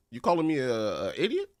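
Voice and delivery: loud, high-pitched mock outrage; mock indignation. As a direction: play offended, voice jumping way up. Player mock-confronts game character over word.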